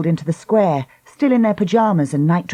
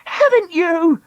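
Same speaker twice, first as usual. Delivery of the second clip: higher, harsher cry; crying out louder; 12 semitones higher, slower than usual. Acted. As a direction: push it harder. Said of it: "she cried".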